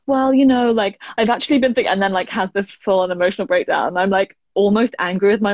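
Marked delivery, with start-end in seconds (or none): 0.1-1.9 higher, louder mum about to unload; lightly voiced mum, hesitant and earnest; a hint of mum opening up on the phone; imitating mum. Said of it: "And she's like".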